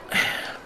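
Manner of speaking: a tired, dejected sigh; weary boss sighing; little sigh. Acted. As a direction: sigh before giving bad news. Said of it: "a little sigh".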